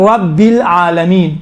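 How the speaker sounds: slow "رب العالمین" with a full, rounded R; heavy R. Shown as a demonstration. Teacher reciting to show students the heavy R, slowly. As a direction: thicken the R of "رب", stretch "العالمین". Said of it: "یہ را تھوڑا سا موٹا پڑا جاتا ہے".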